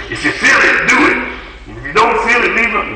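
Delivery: very high mimicry with a touch of laughter; comic high-pitched imitation; mocking people. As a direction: parody people's excuse way up high. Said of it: "You know how people do".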